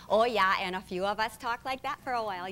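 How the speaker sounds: hint of a folksy Minnesota accent; Minnesota-Dakota accent. Shown as a demonstration. Guest shows how Dakotans talk, Minnesota-Dakota accent. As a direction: lightly lay on the Dakota accent. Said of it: "you have the accent down pat".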